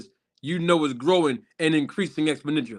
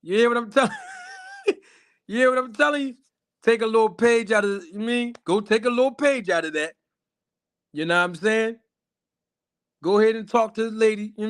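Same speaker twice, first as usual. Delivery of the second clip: higher, hyped-up singer voice for the fellas; a lightly voiced crooner hyping up the guys; put-on singer voice; 7 semitones higher than usual. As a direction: pitch up and sell it like a showman. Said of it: "got my I'll Be Sure voice on me".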